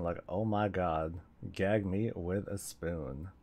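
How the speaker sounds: lightly mocking Valley Girl drawl; Valley Girl accent. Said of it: "that's a Valley Girl accent".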